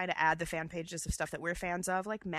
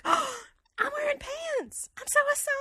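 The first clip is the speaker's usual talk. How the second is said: put-on Savannah accent; 4 dB louder than usual. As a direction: squeal it with Savannah delight. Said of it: "the Savannah accent is very specific".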